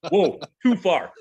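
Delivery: laughing while pulling her back from the joke; laughing protest to his daughter. Retold or imitated.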